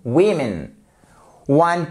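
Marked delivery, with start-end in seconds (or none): 0.1-0.7 "Women" as WIM-in, firm fall; "Women", stressed WIM, short weak ending; careful pronunciation. Shown as a demonstration. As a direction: model "Women" carefully with an i first. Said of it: "Donc faites vraiment très attention".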